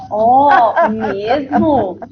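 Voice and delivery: a lightly voiced, engaged reaction with a drawn-out, slow que bacana; interested intonation. Shown as a demonstration. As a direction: show real interest in the child's news, unhurried. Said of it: "depende da entonação que você usa".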